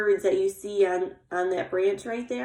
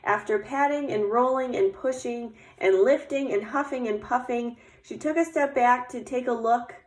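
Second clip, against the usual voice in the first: put-on lively, measured read-aloud to children; story narration. A narrator's reading. Teacher reading about Little Bear getting dressed for snow, storytelling voice. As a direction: read it like a picture book, lingering on descriptions. Reads picture book aloud.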